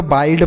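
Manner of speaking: "बाइड", the i wrongly read as 'ai'; mispronounced bird. Shown as a demonstration. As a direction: say "बाइड" with an eye vowel. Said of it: "ना तो बाइड पढ़ेंगे". ("बाइड" में आइ वाला गलत उच्चारण)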